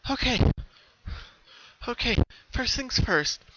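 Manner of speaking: pony gathers herself, steadying; collecting herself. A narrator's reading. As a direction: settle down and plan. Regaining composure.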